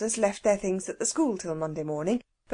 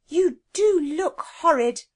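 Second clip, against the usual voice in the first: sudden blurt; 7 semitones higher, 6 dB louder, slower than usual. A narrator's reading. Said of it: "said Jane suddenly".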